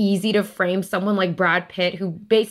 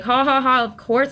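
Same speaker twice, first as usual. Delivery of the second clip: higher-pitched scripted ha-ha-ha; mock polite laughter; 5 semitones higher than usual. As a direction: imitate a crowd politely laughing it off. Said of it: "everyone is just thinking, like".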